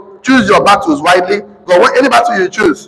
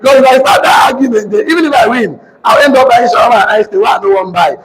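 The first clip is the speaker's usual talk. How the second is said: shouting; 4 semitones higher than usual. Real, not acted. Telling married men why he dodges arguments, shouting. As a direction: belt it out to the whole hall. Heated point about arguing with wife.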